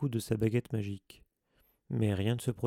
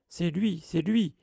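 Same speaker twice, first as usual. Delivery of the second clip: higher, louder insistent accusation; insisting shout; 8 semitones higher, 6 dB louder, slower than usual. A narrator's reading. Filch accuses Harry before the teachers, shouting. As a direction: hammer the blame home. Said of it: "insista Rusard".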